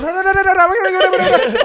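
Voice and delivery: high, loud babbled tirade; mock Russian yelling. Russian lady at the driver who hit her, mock yelling. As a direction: imitate a furious stream of Russian gibberish. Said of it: "just starts yelling at me in Russian".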